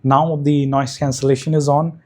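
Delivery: mic with noise reduction artifacts; processed voice, background noise gated out; noise cancellation. Real, not acted. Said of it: "this is the microphone with active noise cancellation on".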